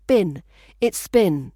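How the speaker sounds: been said short, like bin; It's been, with been as bin. Shown as a demonstration. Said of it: "sounds more like".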